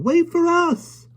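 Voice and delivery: high drawn-out call. A narrator's reading. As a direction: shout after her, slow and long. Michael chasing Mary Poppins.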